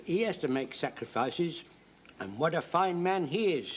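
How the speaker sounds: usual speaking voice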